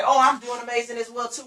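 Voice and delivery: upbeat, energetic answer; excited reply. Shown as a demonstration. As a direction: return the greeting with enthusiasm. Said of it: "Both of y'all need to be excited".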